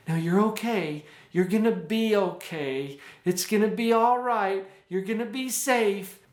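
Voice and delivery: put-on repeating comfort nervously to the child; anxious mother. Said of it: "because of mom's anxiety".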